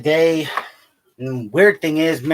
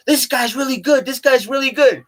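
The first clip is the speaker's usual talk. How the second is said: higher, mock-impressed teammates; imitating teammates; 9 semitones higher than usual. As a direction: echo the other players, impressed.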